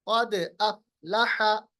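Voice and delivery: slow क़द अफ़लह, bouncing द; qalqalah on dal. Shown as a demonstration. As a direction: echo the द of क़द. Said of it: "क़द नहीं, क़द". (क़द में दाल का क़लक़ला)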